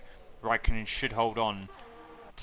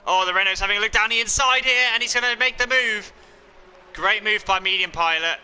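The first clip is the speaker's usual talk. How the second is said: rising fast play-by-play, much higher; excited motorsport commentator; 7 semitones higher than usual. Real, not acted. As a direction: call the overtake as it happens, fast. Overtake called live in race.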